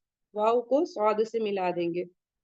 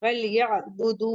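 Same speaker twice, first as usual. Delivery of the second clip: recitation demo; slower than usual. Shown as a demonstration. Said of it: "इसे टू count पढ़ेंगे".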